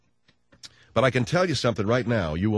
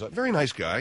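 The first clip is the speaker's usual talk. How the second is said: usual speaking voice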